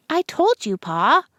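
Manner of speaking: a touch of impatience; I already said this; mild exasperation. Acted. Mabel repeating herself to Pa, mildly impatient.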